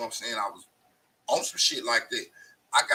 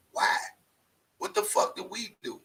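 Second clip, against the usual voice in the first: outraged disbelief; 14 semitones higher, 6 dB louder than usual. Real, not acted. Outraged question.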